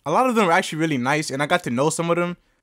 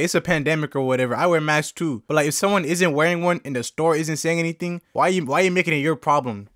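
usual speaking voice

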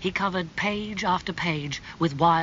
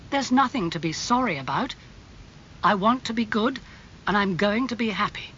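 higher-pitched, earnest resolve; mildly insistent; 5 semitones higher than usual. Acted. Dorian answers Lord Henry's condolences, mildly insistent. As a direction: insist with a touch of eagerness.

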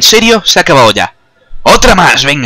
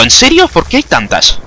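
surprised; 6 semitones higher than usual. Real, not acted. Mine kills him again.

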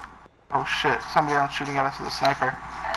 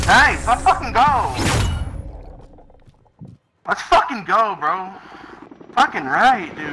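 hyped-up cheering, high and slow; triumphant yelling; 6 semitones higher, slower than usual. Real, not acted. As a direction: celebrate the win at full voice. Squad win celebration.

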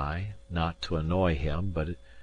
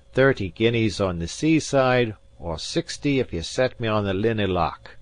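lightly voiced Scots gentleman, firm and proud; proud Highland gentleman; 3 semitones higher, 4 dB louder than usual. Gentleman firmly refusing the captain, lightly voiced proud Highlander. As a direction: stand on your honour, a touch louder.

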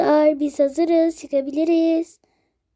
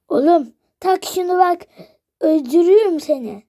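mock angry yell; 3 semitones higher, 5 dB louder than usual. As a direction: bark it at the kid like a fed-up dad. Ebeveyn emzik takmak için bağırıyor. (sinirli babanın çocuğa bağırması)

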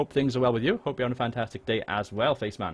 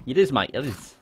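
put-on casual Australian accent; 2 semitones higher than usual. Streamer insisting Australia is a real place, Australian accent. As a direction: answer like a laid-back Australian. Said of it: "That was a really good Australian accent".

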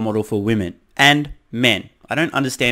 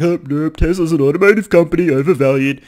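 mock dismissive analyst; 4 semitones higher, 7 dB louder than usual. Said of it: "they're not like".

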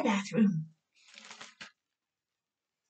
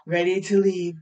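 storybook reading; 2 semitones lower, slower than usual. Acted. Reads picture book aloud.

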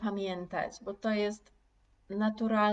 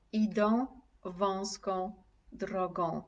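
slow model reading; slower than usual. Shown as a demonstration. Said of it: "proszę powtórzyć".

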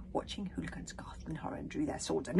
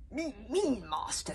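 lightly voiced, higher-pitched small creature; a hint of dragon squeak; scolding little dragon; 5 semitones higher, slower than usual. A narrator's reading. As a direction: scold like a tiny pet dragon. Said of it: "scolded Toothless".

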